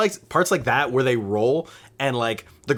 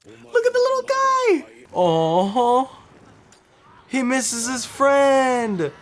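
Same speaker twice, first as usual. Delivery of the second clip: much higher cooing voice; baby talk; 11 semitones higher, slower than usual. Acted. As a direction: coo at it like a puppy. Cooing over a cute character.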